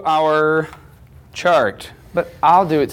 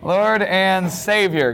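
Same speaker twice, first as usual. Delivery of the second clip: higher, slow and drawn-out; confident affirmation; 4 semitones higher, slower than usual. Acted. Teacher confirming the class's answer, confident and emphatic. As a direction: stretch out each word with assurance.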